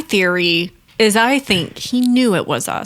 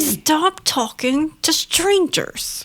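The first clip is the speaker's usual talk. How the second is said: higher, softer shushing mum; hushed scolding; 4 semitones higher, 4 dB quieter, slower than usual. Retold or imitated. Mum retelling how she shushes her son, hushed scolding. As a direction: shush your child under your breath, drawing the words out.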